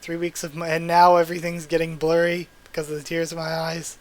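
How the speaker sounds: really fighting tears while reading; choked up, with a small laugh at oneself; holding back tears. Real, not acted. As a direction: try to keep reading without crying. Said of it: "I'm trying not to cry".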